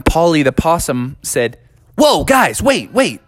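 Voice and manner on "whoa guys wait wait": higher, swooping calls to stop; urgent interruption. Acted. Possum stopping his golfing friends, urgent. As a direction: halt your friends with a rising whoa. Possum halts the others mid-game.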